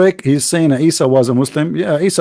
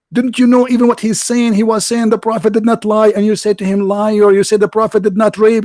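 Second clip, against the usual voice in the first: scolding admin; 4 semitones higher than usual. Retold or imitated. Admin scolding the chat room.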